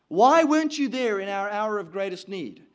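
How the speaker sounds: forceful accusing question; reproachful. Acted. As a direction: demand an explanation, hurt and blaming. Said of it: "she's insinuating blame".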